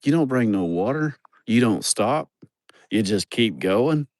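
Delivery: mock the helper scolding him quietly; grumbling helper. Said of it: "He's like".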